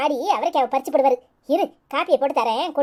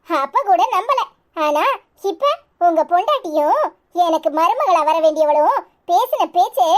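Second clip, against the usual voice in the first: raised, scolding complaint with a few scornful laughs; indignant in-law. Acted. Groom's mother scolding the bride's father, indignant and raised. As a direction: tell them off, half mocking and half outraged.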